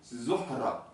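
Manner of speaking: Zohra with a rolled R and a breathed H; Zohra, H sounded and R rolled. Shown as a demonstration. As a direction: roll the R in Zohra. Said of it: "et le R roulé".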